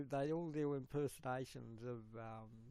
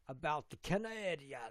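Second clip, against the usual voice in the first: Canadian accent; 3 dB louder than usual. Shown as a demonstration. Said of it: "look at all the accents".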